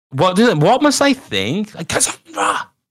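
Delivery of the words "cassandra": put-on full-voice yell, much higher pitch. Speaker acts out shouting a name that the neighbors heard; retelling own shout of a name. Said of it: "shouting the name Cassandra at the top of my".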